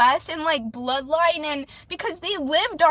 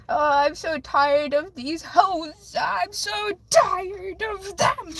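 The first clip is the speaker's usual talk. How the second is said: exasperated; 3 semitones higher, slower than usual. Real, not acted. Venting about exes, dramatic.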